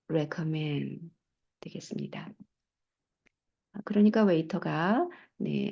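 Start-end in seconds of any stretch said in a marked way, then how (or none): 0.1-1.1 "recommend" softly ending on n, no d; dropped consonant. Shown as a demonstration. Teacher repeating it for learners, "recommend" with the d dropped. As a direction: slowly model "recommend" as "recommen". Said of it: "자음이 두 개 있을 때 앞에 거 하나 탈락시키십니다".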